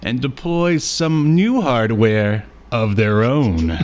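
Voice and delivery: announcer-like synopsis read, slowing at the end. Acted. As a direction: read it out like a dramatic episode teaser. Reads the synopsis aloud.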